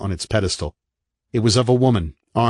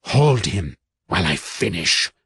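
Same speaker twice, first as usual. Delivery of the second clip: commanding. Acted. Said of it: "she commanded the women".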